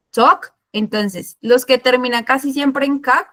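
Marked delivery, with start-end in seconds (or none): 0.1-0.5 "Talk" said slowly, ending on a crisp K sound; slow down and land the K at the end of "Talk"; clear final K. Shown as a demonstration. Teacher to Spanish-speaking class, "Talk" slowly with a clear K. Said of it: "muy importante como marcar la K".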